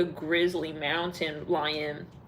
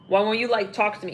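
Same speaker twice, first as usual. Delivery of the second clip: louder, demanding, a bit pushy; angry man; 5 dB louder, faster than usual. Retold or imitated. Jealous boyfriend confronting his partner, mock angry. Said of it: "This is this guy".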